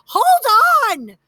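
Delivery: sharp high insistent "Hold on"; insisting. A narrator's reading. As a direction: stop her with a high urgent call. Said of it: "insisted Aunt Gladys".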